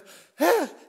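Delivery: loud, high gasp of breath; surfacing gasp. Retold or imitated. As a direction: imitate coming up for air. Surfacing from under the water.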